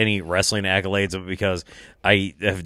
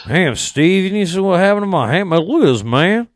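hammed-up Southern good ol' boy; Southern wrestler impression; 10 semitones higher, 6 dB louder than usual. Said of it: "I hate trying to do his voice".

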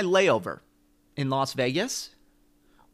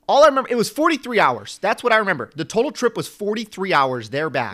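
exasperated; 7 semitones higher, 8 dB louder than usual. Real, not acted. Exasperated ranting about long trip.

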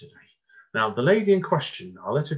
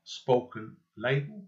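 "spoken label" said slowly and run together as one name; slow dictation of "spoken label" with a rise on "label"; all one word; 4 dB quieter, much slower than usual. Shown as a demonstration. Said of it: "all one word".

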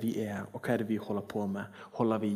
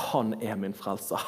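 ordinary delivery

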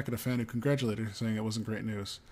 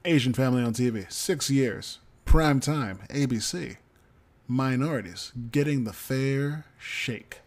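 mock-celebratory, louder build; mock cheerful; 6 dB louder than usual. Real, not acted. Host mock-celebrating the show's renewal to co-host, sarcastic. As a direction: ham up the good news before the twist. Sarcastic setup before bad news.

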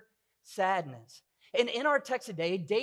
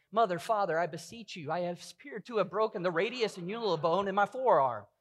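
stiff, overly proper little girl, hammed up; a hint of a posh, robotic daughter; mock formal child. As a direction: play a prim child asking politely for a hospital trip. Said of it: "she didn't come up to my wife and I and go".

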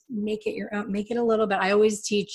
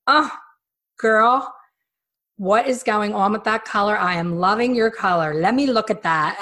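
excited calling out; 3 semitones higher, 5 dB louder than usual. Retold or imitated. Bud calling out in the bar.

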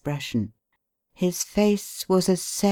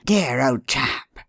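tender; slower than usual. A narrator's reading. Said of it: "with a very tender hand".

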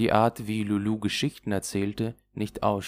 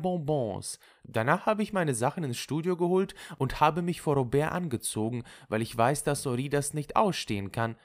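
higher, self-satisfied recounting; chatty Lulu; 8 semitones higher than usual. Acted. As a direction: relate your revenge brightly, pitched up. (zufrieden plaudernde Lulu)

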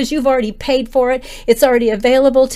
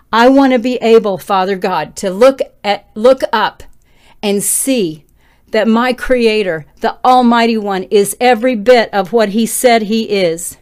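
preaching yell; 4 dB louder than usual. Real, not acted. Preacher yelling to his brothers and sisters, fervent loud preaching. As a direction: proclaim it over the congregation with full force. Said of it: "I am yelling".

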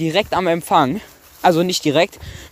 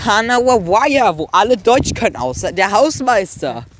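infomercial; 3 semitones higher, slower than usual. Pretend. Mock ad pitching the trip.

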